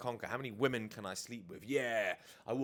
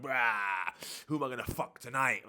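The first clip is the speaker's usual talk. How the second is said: louder mock party-animal boast; beast mode; 5 dB louder than usual. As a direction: hype yourself up like a drunk predator. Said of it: "this beast mode".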